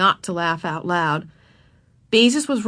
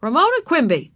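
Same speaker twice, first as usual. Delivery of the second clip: raised, stern father's warning; firm parental reprimand, pitched up; 6 semitones higher, 4 dB louder than usual. A narrator's reading. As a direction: call the child to order by full name. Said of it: "her father said sternly".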